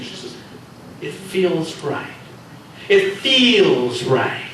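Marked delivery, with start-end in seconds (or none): 1.0-2.1 slow, drawn-out sarcastic echo; mocking repeat. Reika mocks Hiro. 2.9-4.4 very slow, louder, exaggerated sarcasm; louder mocking repeat. Reika mocks again louder.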